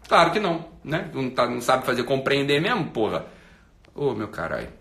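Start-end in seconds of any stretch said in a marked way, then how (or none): none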